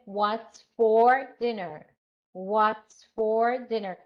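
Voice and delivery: slow, measured "What's for dinner", dropping on DINNER; slow drill with the question ending downward; falling intonation. Shown as a demonstration. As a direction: let DINNER fall at the end, beat by beat. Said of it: "falling intonation".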